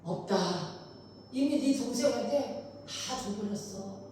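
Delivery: put-on low, soft and drained old father; quiet, powerless reply; feeble, strengthless. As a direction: say it weakly, as if all strength is gone. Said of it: "아버지 이삭이 힘없이 얘기를 하죠".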